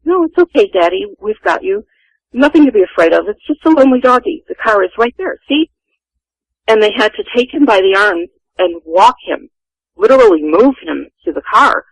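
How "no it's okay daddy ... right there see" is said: lightly imitated British accent, higher; a hint of mother's soothing British accent. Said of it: "in her lovely British accent".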